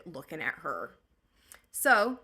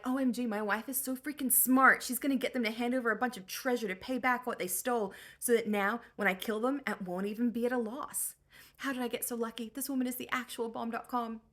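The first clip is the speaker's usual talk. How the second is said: gushing excited husband; 4 semitones higher than usual. Retold or imitated. Thrilled Odysseus gushing.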